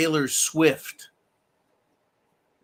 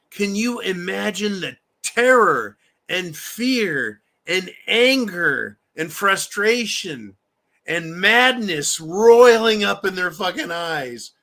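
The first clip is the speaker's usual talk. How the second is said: gloating; 4 semitones higher, 5 dB louder, slower than usual. Real, not acted. Gloating about trolling critics.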